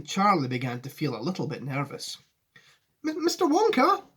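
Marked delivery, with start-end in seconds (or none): 3.1-4.0 high, stammered call; yelling. A narrator's reading. Nervous boy hailing Wonka above noise, high call. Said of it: "he yelled above the noise".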